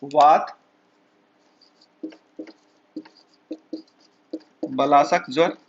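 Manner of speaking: वात बलासक ज्वर said slowly, with a long pause between वात and बलासक ज्वर; dictating term. Shown as a demonstration. Teacher dictating a disease name for students to write down. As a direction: spell the term out for notes. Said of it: "इसी से लिख देते हैं हम".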